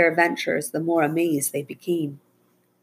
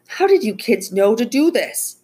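high, loud, amazed question; impressed disbelief, louder and higher; astonished; 7 semitones higher, 5 dB louder than usual. Acted. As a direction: ask in astonishment, voice pitched up. Amazed ranger questions the kids.

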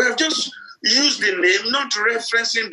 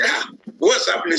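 higher-pitched mock alarm; startled, questioning exclamation; alarmed neighbours; 8 semitones higher than usual. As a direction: act like a neighbour rushing in. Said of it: "run into their room".

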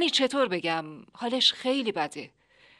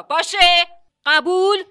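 insisting; 7 semitones higher, 9 dB louder, slower than usual. Acted. Narrator insisting on a deal.

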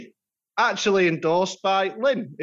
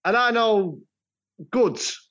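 high hammed-up advert boast; mock ad voice; 7 semitones higher than usual. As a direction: sell it like a cheesy ad. Frase de anuncio exagerada.

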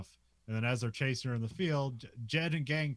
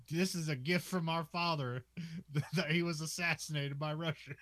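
stupid man voice; 6 semitones higher than usual. Retold or imitated. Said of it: "the stupid man voice".

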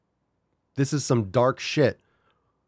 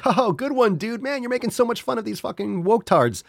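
lightly higher imitating a laughing fan; mock fan voice; 10 semitones higher than usual. Imitating viewers laughing along, light mock voice. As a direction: play the easily amused viewer. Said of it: "We wanna laugh at that and be like".

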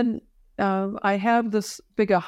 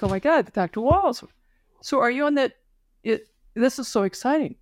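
higher, lively imitation of thrilled partners; excited colleagues; 4 semitones higher than usual. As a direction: gush like amazed colleagues. Partners marvel at his walking.

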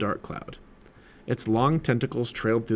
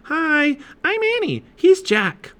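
put-on high-pitched girl calling out; friendly yell; 5 dB louder, slower than usual. A narrator's reading. Annie greeting the octopus through the sub, yelling high. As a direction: call out introductions in a high voice. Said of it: "She yelled to the octopus".

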